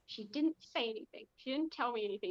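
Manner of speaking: mild sulky protest; understated sulk, short of crying; pouting. Acted. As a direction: protest with a slight pout.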